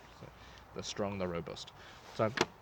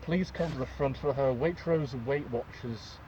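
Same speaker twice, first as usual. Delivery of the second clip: store announcer; 3 semitones higher than usual. Pretend. Mock supermarket PA call.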